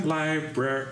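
counting syllables. Real, not acted.

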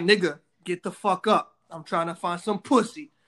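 slow, insistent voice of a horny dick; demanding inner voice. Retold or imitated. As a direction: drag it out like a pushy little voice. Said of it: "He be like".

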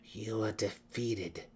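slow, matter-of-fact reminder. A narrator's reading. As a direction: state it slowly as plain fact. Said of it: "reminded her matter-of-factly".

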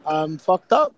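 tired, hoarse and sleep-deprived. Real, not acted. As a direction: scrape the words out with no voice. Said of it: "Uh, no voice".

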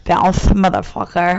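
weak lisping Tigger voice; a failed attempt at Tigger's lisp; bad Tigger impression. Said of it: "That was terrible".

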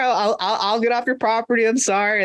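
put-on high, slurry apologetic drunk; drunk guy voice. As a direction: play a sloppy drunk caught trespassing, high. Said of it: "and he's like".

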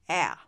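エア as a long 'æ', lips pulled wide; wide-mouthed American A. Shown as a demonstration. Teacher models for learners to try, wide American A. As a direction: pull wide sideways, open a little, hold エア. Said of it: "縦もちょっと広げて".

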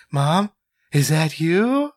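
a hint of a questioning daughter, drawn out; Marty McFly's daughter. Daughter asks if Mom is there, lightly imitated questioning call. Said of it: "Marty McFly's daughter in Back to the Future Two".

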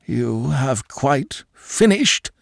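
slow, harsh put-on voice for the uncle; cold, drawn-out contempt. Uncle rebuffing the young man, harshly. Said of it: "he said harshly".

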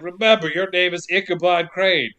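solemn British actor impression; Christopher Lee. Podcaster as the judge instructing the detective, solemn impression. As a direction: imitate a stern judge issuing a reminder. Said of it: "And then Lee's like".

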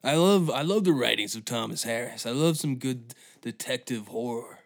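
lightly voiced smug book fan; a hint of a proud fanboy showing off; nerdy fan voice. Mocking an imagined thief as a proud Thomas Harris fan, lightly voiced. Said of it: "are they just be like".

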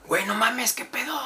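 high squeaky retold surprise; mock surprise. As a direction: play up the shock of the moment. Retelling shocked greeting to friend.

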